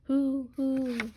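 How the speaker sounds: high, loud hooting; child's owl hoot "Hoo, hoo". A narrator's reading. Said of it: "said a big round owl".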